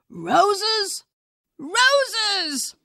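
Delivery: high, lingering wonder. A narrator's reading. Father marvelling at the magic smell for his daughter, high and wondering. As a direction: savour each word with awe.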